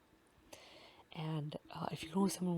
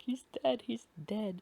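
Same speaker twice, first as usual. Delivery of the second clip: high, loud panicked cry of grief; panicked wail; 6 semitones higher, 5 dB louder than usual. Retold or imitated. Happy panics over Luffy's body, shrill crying wail. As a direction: sob it out like a terrified little cat.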